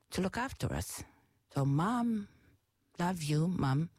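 holding back tears while thanking mom; getting emotional. Real, not acted. Speaking to mom, emotion rising as she thanks her. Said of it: "I'm getting a little bit emotional here".

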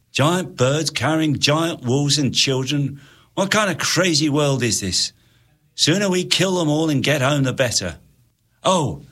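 gruff scornful soldier voice; sneering sergeant. Acted. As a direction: grumble about this crazy world. Sergeant grumbling.

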